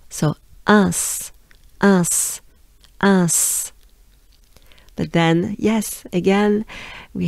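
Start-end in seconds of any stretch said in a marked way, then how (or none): 0.7-3.7 nasal un ending in s; French uns. Shown as a demonstration. Teacher building the syllable of Reims. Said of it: "ends with a s".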